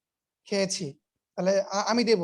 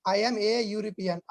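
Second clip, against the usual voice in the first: "a European" drawn out very slowly; slow demo reading; much slower than usual. Shown as a demonstration. Teacher modelling a sentence for students, very slow. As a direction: spell the sentence out word by word. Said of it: "teacher demonstrates the sentence".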